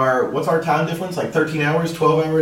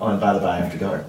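sultry late-night radio host; sexy voice; 7 semitones lower than usual. Pretend. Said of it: "It's my sexy voice".

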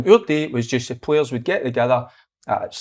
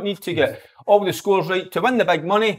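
ad read. Acted. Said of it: "wanting to read things out".

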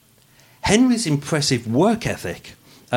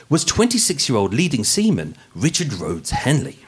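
dramatic true crime narration; podcast narration; 3 dB louder than usual. Acted. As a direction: read it like a crime podcast host. Narration resumes.

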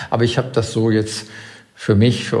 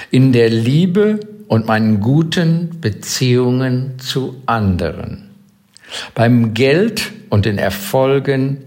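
slow, over-enunciated dictation pace. Shown as a demonstration. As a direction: spell it out slowly for note-taking. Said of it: "jetzt einmal langsam zum Mitschreiben sozusagen".

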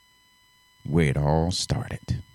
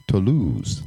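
drawn-out mock French accent. Shown as a demonstration. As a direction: put on a French accent for the name. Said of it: "That's my French accent".

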